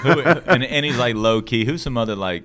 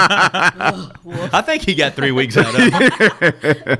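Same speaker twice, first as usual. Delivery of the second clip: loud, high, slow words through laughter; real laughing; 9 semitones higher, 9 dB louder, much slower than usual. Real, not acted. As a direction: cackle hard and push the joke out. Cracking up at three weeks joke.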